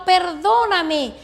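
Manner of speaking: slow, drawn-out pleading "Perdóname"; mild imitation of a weeping apology; retold crying plea. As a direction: stretch "Perdóname" slowly like a tearful apology.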